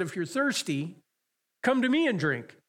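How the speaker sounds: preacher voicing Jesus crying out. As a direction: call out like Jesus inviting the crowd. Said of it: "Jesus stood and cried out".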